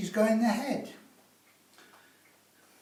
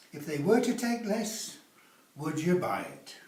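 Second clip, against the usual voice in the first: If they were to take less said as a clear model; teacher repeats the magic words. Shown as a demonstration. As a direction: lay out "were" and "you" clearly. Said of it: "Remember the magic words?".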